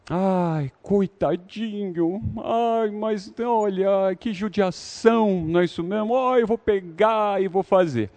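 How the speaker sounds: put-on high, soft cooing over a crying baby; doting mother. Mother cooing softly over a crying baby. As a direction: coo like a grandma pitying the baby. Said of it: "essa reação vem delas".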